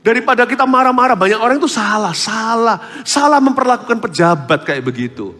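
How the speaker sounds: loud, high preaching voice; fiery preaching. Real, not acted. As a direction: preach it out with full force. Preaching at full force. (khotbah berapi-api dengan suara keras)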